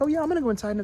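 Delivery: put-on high-pitched child voice; imitated breezy kid. Kid announcing she's going inside, high-pitched imitation.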